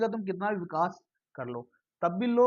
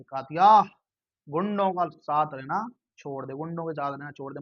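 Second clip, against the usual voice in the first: Sunny Deol dialogue; 4 dB louder than usual. Retold or imitated. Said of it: "Sunny Deol एक movie में dialogue मारता है".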